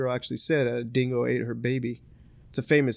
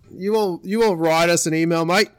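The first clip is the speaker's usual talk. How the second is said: put-on Australian accent; 2 semitones higher, 4 dB louder than usual. Addresses Australian listeners in mock accent.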